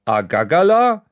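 dad repeating his order to the baffled waitress; unsure Franconian. Acted. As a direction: try the word again, doubtfully. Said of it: "Papa wiederholt".

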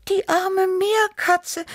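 high, slow, worried kitten voice; worried meowing Tibi. A narrator's reading. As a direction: mew it slowly with worry for the poor animal. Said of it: "miaute Tibi besorgt".

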